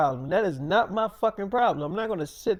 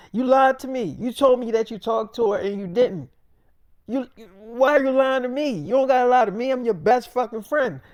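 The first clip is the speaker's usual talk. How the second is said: raised, louder retelling of a hurt friend; upset accusation; 4 semitones higher, 4 dB louder than usual. Retold or imitated. Best friend accusing David of lying, upset accusation. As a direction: press the accusation with mounting force. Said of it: "You upset at me".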